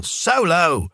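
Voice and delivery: a light imagined shout of warning; mild mock yell. A narrator's reading. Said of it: "would immediately yell".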